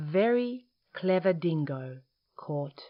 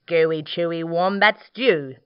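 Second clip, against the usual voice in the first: boastful; 7 dB louder than usual. Acted. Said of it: "boasted Dingo".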